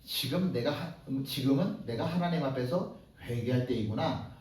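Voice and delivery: low, soft, humble reflection; quiet realization. Retold or imitated. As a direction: murmur it like a repentant thought. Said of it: "라고 생각할 수도". (낮고 조용히 회개하듯)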